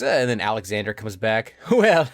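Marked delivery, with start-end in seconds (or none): 1.7-2.1 cool dude voice. Retold or imitated. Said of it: "Alexander was cool for a second".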